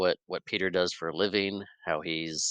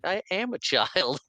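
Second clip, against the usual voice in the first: high, slow, laughing through the words; gleeful kid talking back, cracking up; cheeky laughing reply; 10 semitones higher than usual. Retold or imitated. Kid's cheeky comeback.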